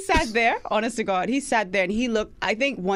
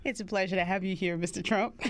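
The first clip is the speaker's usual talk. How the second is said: put-on Southern accent; 6 dB quieter than usual. Voter Rogan greeting Trump in a soft Southern accent. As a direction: play a Georgia voter in a gentle Southern accent. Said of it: "I'm still doing the Southern accent".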